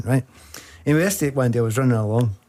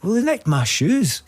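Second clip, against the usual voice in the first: high, slow hard-done-by whine; aggrieved fan; 9 semitones higher, slower than usual. Retold or imitated. Fan tells the footballer his shoes were stolen, high and slow. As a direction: squeak it out, all hurt.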